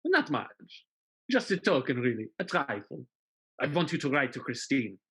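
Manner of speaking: soft, silky menace; sly quiet villain. Pretend. Villain softly asking Marius for a trifle, silky menace. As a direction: understate the demand to scare him.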